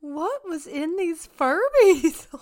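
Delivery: high-pitched disbelief. Real, not acted. Cohost reacting to the hammered Furby story, high incredulous squeal. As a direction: squeal the questions in mock horror.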